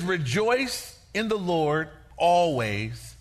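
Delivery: slow, drawn-out reading of the verse; stretched, reverent recitation; solemn scripture reading. Acted. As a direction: read it slowly and deliberately, like holy writ.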